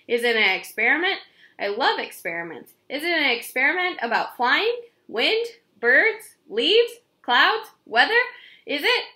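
a burst of eager excited guesses; eager questions. Acted. Curious girl pestering about the experiment, building excitement.

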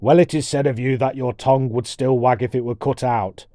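lightly voiced brusque dwarf; hint of a blustering storybook warrior; impatient dwarf warrior. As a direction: cut in with formal impatience.

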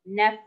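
نف cut short on a vowelless f; closed syllable. Shown as a demonstration. Teacher isolates the still syllable, نف ending on a bare f. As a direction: stop نف on the consonant f. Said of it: "أين المقطع الساكن فيها".

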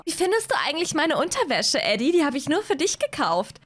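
leicht höhere, kokette Hazel-Stimme; Hazel flirting. Acted. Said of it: "Hazel zu spielen ist so anstrengend". (Hazel fragt Eddie kokett nach ihrer Unterwäsche)

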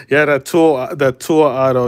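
real thrilled outburst over a card; so hyped the mic clips; excited yell. Real, not acted. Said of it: "messed up your eardrums there".

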